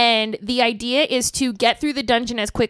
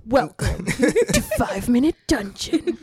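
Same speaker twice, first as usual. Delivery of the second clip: slow, drawn-out announcer intro; fighting game announcer; slower than usual. Shown as a demonstration. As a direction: announce it like a game show host. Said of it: "like, an announcer voice".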